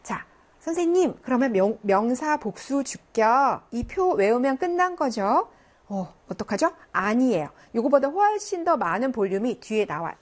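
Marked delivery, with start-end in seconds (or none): 0.6-5.5 mock student question. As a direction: play a pupil hoping the table is enough. Teacher voices a student's question.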